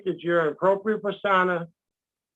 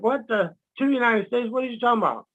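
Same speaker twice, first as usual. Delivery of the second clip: higher, puzzled what-the; baffled at hearing of two countries; retold disbelief; 4 semitones higher than usual. Remembering first learning this, mildly incredulous. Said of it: "I used to be like".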